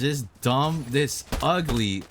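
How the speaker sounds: real anger, each curse slowed and spat out; fuming, words dragged out with rage; heated cursing. Real, not acted. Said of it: "I'm too heated to even try and focus".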